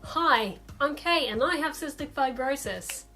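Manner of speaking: mock bouncy intro. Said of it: "I don't bounce up to someone new and go".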